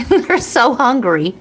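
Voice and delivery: slow words broken by laughs; laughing. Real, not acted. Host mocking view-hungry channels, slow and laughing. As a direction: laugh through it, slowly.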